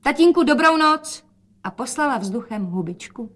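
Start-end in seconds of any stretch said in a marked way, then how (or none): 0.0-1.2 high, loud cheerful goodbye; calling out. A narrator's reading. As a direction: call goodnight across the room. Daughter calls goodbye. (veselé zvolání na rozloučenou)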